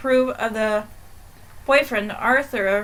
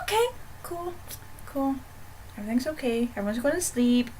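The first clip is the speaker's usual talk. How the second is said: sarcastic relief; 7 dB quieter, faster than usual. Retold or imitated. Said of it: "I'm like".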